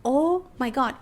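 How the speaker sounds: breathless whispered delight; hushed amazement over a happy accident in the edit; awed whisper. Retold or imitated. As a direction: whisper as if you just found treasure. Discovering footage in editing.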